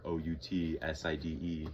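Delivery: spelling O-U-T-S-I-D-E letter by letter; spelled out. Real, not acted. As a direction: spell the word out so she won't catch on. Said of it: "Can't say the word".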